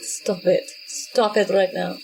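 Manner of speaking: ordinary talk, nothing marked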